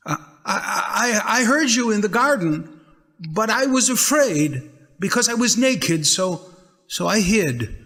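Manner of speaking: man confessing to God, scared; frightened stammer. Acted. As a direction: stammer it out in fear.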